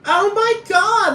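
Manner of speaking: very high, very slow drawn-out coo; Paris Hilton cooing. Retold or imitated. Paris Hilton cooing at a pet-shop puppy, slow high coo. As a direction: stretch it out like baby talk to a puppy. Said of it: "like she's a fucking dog or some shit at a pet shop".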